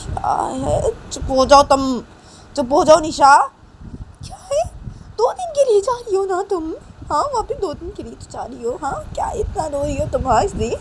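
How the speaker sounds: high exasperated scolding; scolding mother. Acted. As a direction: hush a crying child impatiently. Mother scolding crying Nisha. (झुंझलाकर चुप कराना)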